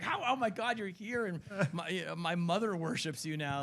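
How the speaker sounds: breathless starstruck fan; starstruck gush. Retold or imitated. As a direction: fawn over the celebrity. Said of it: "I was like".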